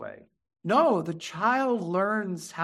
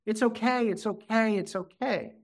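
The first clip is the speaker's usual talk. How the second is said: lightly mimicked parent shushing a baby, higher pitched; hurried parental soothing; 5 semitones higher than usual. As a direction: repeat it as an imitated anxious reassurance, pitch stepping down. Parents hushing a crying baby.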